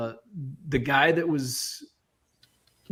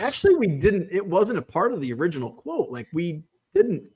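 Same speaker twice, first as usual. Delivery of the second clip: higher-pitched, insistent retold protest; agitated rebuttal; 5 semitones higher than usual. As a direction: replay your irritated correction of the contractor. Retells irritated rebuttal to contractor.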